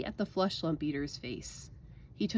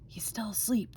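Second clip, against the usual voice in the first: hushed giant's whisper, a little higher; 4 semitones higher, 3 dB quieter than usual. A narrator's reading. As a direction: whisper it so the sleeper won't hear. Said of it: "the B F G whispered".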